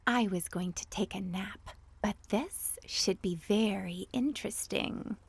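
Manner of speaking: a sleepy cat intrigued; cat interrupted from nap; cat's languid voice. A narrator's reading. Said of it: "what she thought was".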